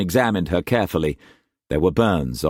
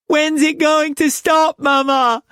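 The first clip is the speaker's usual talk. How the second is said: put-on high small child voice, a touch tearful; child's plea; 4 dB louder than usual. A narrator's reading. Lilibet asking Mama in the storm, tearful. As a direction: ask your mother in fear. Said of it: "Lilibet sobbed".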